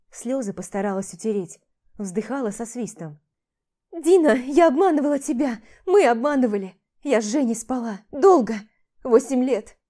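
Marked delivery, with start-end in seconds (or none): 3.9-9.8 loud, higher outpouring; anguished confession. Acted. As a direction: blurt the secret out in anguish. Tearful confession shouted out.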